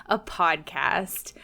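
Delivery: bright, overly polite host greeting; customer service voice. Pretend. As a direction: welcome them like a shop clerk. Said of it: "That's my customer service voice".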